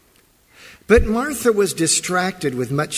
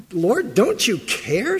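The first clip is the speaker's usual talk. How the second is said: accusing plea; 5 semitones higher, slower than usual. Retold or imitated. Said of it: "she says".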